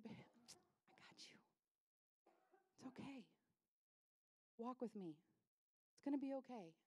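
hushed, near-whispered comfort; tender reassurance. Acted. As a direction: soothe very softly, starting in a whisper. Jesus reassuring a frightened father.

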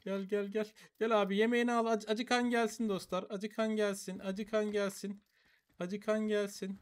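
high, repeated feeding call. Real, not acted. Player calls hungry animals to food, calling out.

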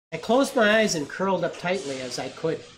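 gentle storybook reading voice; story narration. A narrator's reading. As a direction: read it to the children, unhurried. Resumes reading the story aloud.

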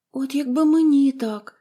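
put-on a touch of girlish longing; wistful sigh. A narrator's reading. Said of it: "зітхнула Поліанна". (мрійливе зітхання)

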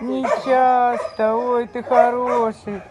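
slow, drawn-out fond words; talking to a dog. Real, not acted. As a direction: coo slowly to a pet.

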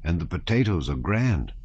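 lightly voiced sing-song peasant, friendly; gently lilting, homely soldier; kindly peasant soldier. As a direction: offer humble food with a touch of pride.

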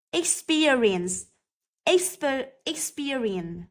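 Experience with stress on SPEAR; slow, careful experience, leaning on PER; stress on second syllable. Shown as a demonstration. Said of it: "cũng rơi vào âm thứ hai". (nhấn âm thứ hai "spear" trong experience)

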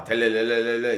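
low, rolling mimicked ringtone; spoken ringtone imitation; imitated phone ring. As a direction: trill a phone ringing, low and monotone. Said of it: "전화가 와".

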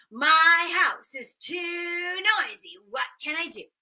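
a hint of a weary old man; complaining old man. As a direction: plead with the wise woman. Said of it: "he said".

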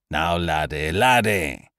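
reproving. Acted. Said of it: "said Ukridge reprovingly".

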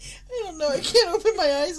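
laughing too hard to talk; breathless giggles. Real, not acted. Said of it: "I'm laughing too hard".

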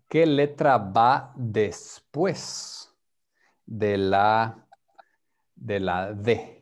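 qué letra va después de la D asked slowly; slow clear question. Shown as a demonstration. Teacher asking a student slowly and clearly. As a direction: spell out the question for a learner. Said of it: "slow question to student".

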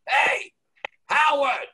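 high shouted call across the park; scream from a jogger. Retold or imitated. New York jogger spots Howard in Central Park, screaming high. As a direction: yell his name from twenty-five feet away. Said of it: "I hear this scream".

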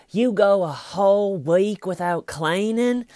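high, loud, drawn-out disbelief; hammed-up outraged question; mock incredulity. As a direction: mimic an appalled detective, dragging the words out. Imitates detective appalled at suspect.

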